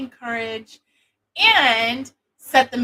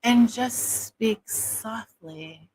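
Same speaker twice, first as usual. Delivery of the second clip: slow, soft phone sex operator voice; soft sexy voice; much slower than usual. Shown as a demonstration. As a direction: linger on each word, seductively. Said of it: "which is what I'm using".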